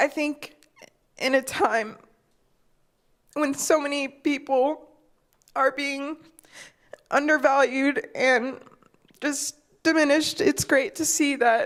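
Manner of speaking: tearful, halting crying, voice breaking high. Speaker apologizes to listeners for getting emotional, crying while speaking. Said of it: "once I start crying, it's so hard for me to stop".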